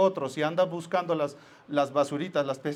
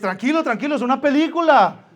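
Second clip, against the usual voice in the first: calming wife; 5 semitones higher, 8 dB louder than usual. Retold or imitated. Wife calming him, acted.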